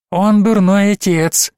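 put-on high, slow confiding possessed child; confiding demon child. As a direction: share a secret like a sly little monster. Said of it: "доверительно сообщила Аня". (доверительно, высоким голосом одержимой)

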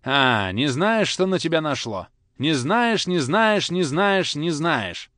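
loud, high rising repetition; father shaking the boy's ear, loud and high; repeating angrily. A narrator's reading. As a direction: shake out each word. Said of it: "повторял он с каждым словом".

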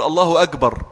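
"الله أكبر" as Allahu agbar; Egyptian jim error. Retold or imitated. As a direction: voice the k in أكبر to a hard g. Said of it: "أكبر بالجيم المصرية".

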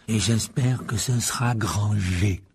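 slow, relishing malice; gleeful. Acted. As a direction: savour the wish, slowly. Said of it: "ajouta-t-il d'un air réjoui".

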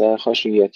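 خشية with an echo after the sh; the mistake: bounce the shin in خشية; bounced shin. Shown as a demonstration. Teacher showing what not to say, خشية with bounced sh. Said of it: "ننتبه أن لا نقلقلها".

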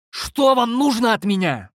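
high, slow desperate shout. A narrator's reading. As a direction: yell it at them, high and slow. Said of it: "закричал я". (высокий медленный отчаянный крик)

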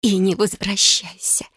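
slow, breathy whisper through tears. A narrator's reading. Tearful sister sending her sister away, slow whisper. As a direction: hiss the farewell slowly under the breath. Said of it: "прошептала она".

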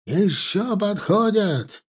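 drawn-out, high alarmed cry; horrified yell. A narrator's reading. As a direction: call out in horror, stretching the words. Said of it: "заорал Гамгадзе с ужасом".

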